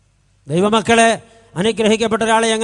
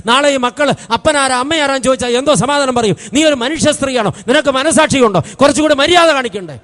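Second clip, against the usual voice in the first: from calm question to a louder, higher rebuke; rising scolding; 4 semitones higher, 5 dB louder than usual. Retold or imitated. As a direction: build the telling-off steadily. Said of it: "എൻ്റെ ശബ്ദം ഉയരുമ്പോൾ".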